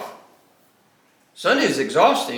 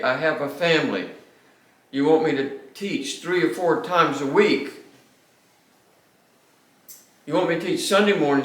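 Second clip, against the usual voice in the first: exasperated retold rant; 2 semitones higher than usual. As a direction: rattle off the demands in exasperation.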